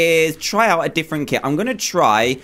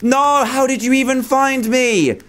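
real dismay; 10 semitones higher than usual. Real, not acted. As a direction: cry out as you're caught. Caught and killed in hiding.

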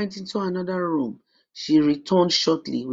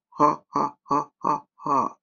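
witch cackle. A narrator's reading. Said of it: "The old witch laughed".

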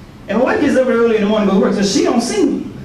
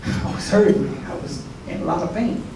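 hushed with pain; 5 semitones lower, 7 dB quieter than usual. Real, not acted. Retelling morning of crippling pain.

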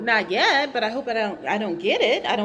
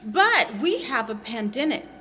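talking while chewing gum; words round a piece of gum. Real, not acted. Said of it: "Sorry, I'm chewing gum".

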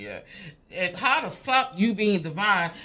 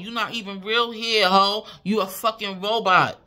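higher and louder, mocking tirade; loud angry rant; 5 semitones higher, 7 dB louder than usual. Real, not acted. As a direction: shout her down with scorn. Ranting at the karmic rival.

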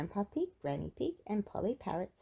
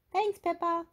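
cheerful thanks; 11 semitones higher, 4 dB louder than usual. Acted. Dogs voiced.

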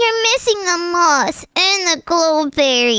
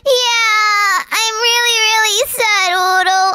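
crying. Acted. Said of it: "And now you're crying?".

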